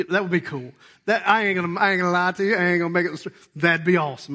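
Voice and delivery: ordinary delivery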